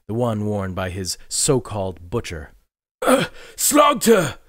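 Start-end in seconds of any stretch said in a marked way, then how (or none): 3.0-4.4 high, startled cry of recognition. Acted. Morgrig startled to recognize his butcher, high stunned cry. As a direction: blurt the name in shock.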